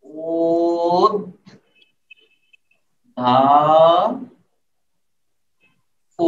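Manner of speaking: ও, ধা, প spoken as separate slow beats; slow syllable by syllable. Shown as a demonstration. Teacher demonstrating slow pronunciation to students, syllable by syllable. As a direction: sound out each syllable with pauses. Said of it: "কোথায় কি উচ্চারণ করতেছেন".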